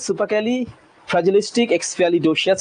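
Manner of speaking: "Supercally fragilistic expialidocious" split and very slow; slow careful pronunciation; slow syllable demo. Shown as a demonstration. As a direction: break it up slowly for the class. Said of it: "এটা হচ্ছে উচ্চারণটা".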